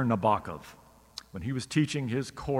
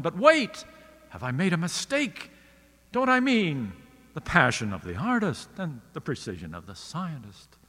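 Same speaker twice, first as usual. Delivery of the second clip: baffled tone; 3 semitones higher than usual. Retold or imitated. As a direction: sound suddenly unsure of the words. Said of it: "Nabokov says in a baffled tone".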